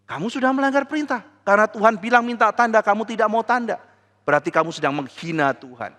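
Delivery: fast, high accusation; God exposing the king's insult; rapid rebuke. Acted. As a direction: rattle off the charge.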